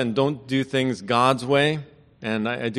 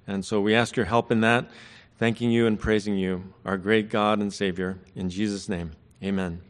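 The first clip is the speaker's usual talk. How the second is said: opening prayer; 2 semitones lower than usual. Acted. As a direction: pray earnestly over the congregation.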